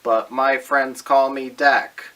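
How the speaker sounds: loud, slow smooth-talking pitch; smooth ladies' man. Acted. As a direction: lay on the cheesy charm slowly. Dating video, smooth seductive pitch.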